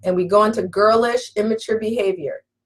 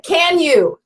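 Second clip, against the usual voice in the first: habitual womanese request; 7 semitones higher than usual. Shown as a demonstration. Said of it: "Default back to old womanese patterns".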